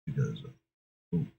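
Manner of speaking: low, quiet lone bounty hunter; underplay a loner on a mission, low and soft; Samus Aran. Acted. Improvising as a space bounty hunter, low quiet loner. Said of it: "kind of an on alone character".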